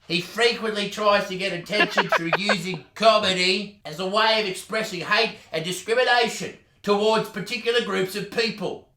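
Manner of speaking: reading as the whiny cyclist; prissy forum poster voice; soy boy voice. Acted. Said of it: "So the cyclist voice will be".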